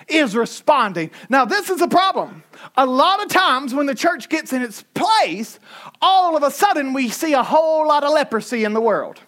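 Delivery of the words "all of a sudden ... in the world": usual speaking voice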